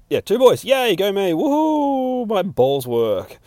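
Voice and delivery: high, loud cheer climbing to a woohoo; self-congratulating mock cheer; mock celebration. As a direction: whoop it up for yourself. Mock cheer at own news.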